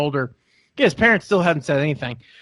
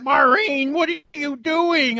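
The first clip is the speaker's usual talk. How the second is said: put-on exasperated old husband; 11 semitones higher, slower than usual. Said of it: "he's like".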